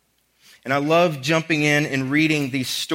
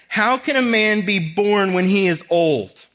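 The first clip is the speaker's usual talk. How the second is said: put-on slow, puzzled, like a small child asking; lightly voiced naive child question; childlike question; 5 semitones higher, 3 dB louder than usual. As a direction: ask it like a five-year-old would. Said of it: "sound like a five-year-old asking question".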